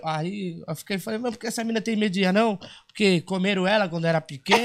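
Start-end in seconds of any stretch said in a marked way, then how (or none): 1.2-4.7 fast high joking jab; laughing punchline. Retold or imitated. Dwarf jokes why she fears him, fast and laughing. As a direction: toss off the joke. Joke retort.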